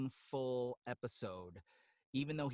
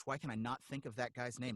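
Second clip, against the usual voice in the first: usual speaking voice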